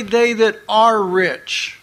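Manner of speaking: "are" leaned on as the contrasting word; stress on "are". Shown as a demonstration. Preacher says what the verse doesn't say, stressing "are". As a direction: set "are" apart with firm stress. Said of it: "it doesn't say".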